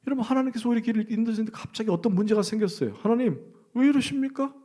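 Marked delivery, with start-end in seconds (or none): 3.0-4.5 high, pleading mock complaint to God; complaining cry to God. Preacher voicing a believer's complaint to God, high and pleading. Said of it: "라고 원망할 수 있고".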